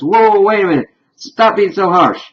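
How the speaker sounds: defensive Dean. Retold or imitated. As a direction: play him offended for his crush. Dean retold, defending his love.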